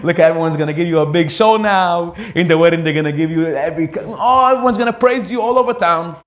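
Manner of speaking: slow, coaxing flatterer's voice; lightly voiced tempter, sweet-talking his ego; tempting evil inclination. Evil inclination flattering Rav Zusha, slow and coaxing. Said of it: "the Yetzer Hara was telling me".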